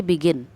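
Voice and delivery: teacher demonstrating stress in बिगिन; stress on first syllable. Shown as a demonstration. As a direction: lean on बि, ease off गिन. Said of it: "बी पे आप stress".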